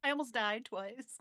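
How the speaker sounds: lightly voiced teenage son; kid's reply. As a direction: toss it off like a bored teen. GM answers as the son.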